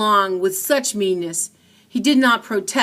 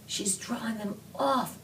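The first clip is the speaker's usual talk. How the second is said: whispered; 4 semitones higher, 9 dB quieter than usual. A narrator's reading. Pink hiding in cellar, hushed whisper. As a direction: breathe it so no one above hears. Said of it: "Pink whispered".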